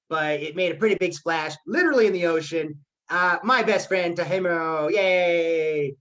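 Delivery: a friend's upbeat birthday speech, toasting Tomohiro. Shown as a demonstration. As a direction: cheer him on like a party host. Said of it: "so that's my energy".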